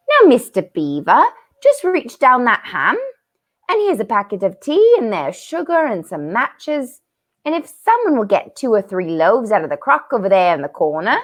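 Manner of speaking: a hint of a bustling motherly beaver; lightly voiced busy housewife beaver; Mrs Beaver, lightly voiced. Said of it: "laying them on the table and said".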